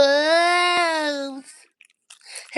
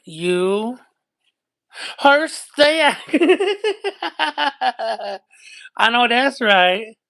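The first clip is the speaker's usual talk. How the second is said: deep put-on voice; 4 semitones lower than usual. Low put-on voice, laughing.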